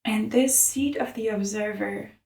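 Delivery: calm, measured meditation guide; unhurried mindfulness narration; guided meditation. Real, not acted. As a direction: lead them through an image, pausing long between phrases.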